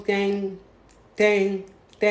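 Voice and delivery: evenly spaced vocal ring tones; imitated ringing phone. Husband calls the girl back, imitated ringing. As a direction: mimic a phone ringing, unhurried. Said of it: "Ça sonne".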